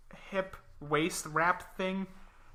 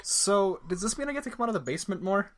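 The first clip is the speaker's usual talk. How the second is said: timid pleading; 4 semitones higher, faster than usual. Acted. Comic skit after ad.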